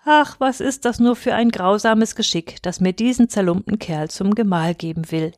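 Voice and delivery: put-on mildly lamenting young lady; a touch of tearful despair. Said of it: "jammerte sie".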